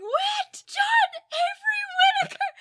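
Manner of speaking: high, loud panicked calling; frantic screaming. Retold or imitated. Retelling Connie running into the yard, screaming for Whit. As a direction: yell for him across the yard. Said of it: "comes running into the yard screaming".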